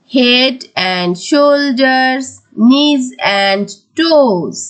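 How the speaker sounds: very slow, drawn-out rhyme line; slow, measured teaching recital; rhyme recitation. Shown as a demonstration. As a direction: stretch each word for pupils to follow. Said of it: "তাহলে আমরা রাইমসটা পড়ি".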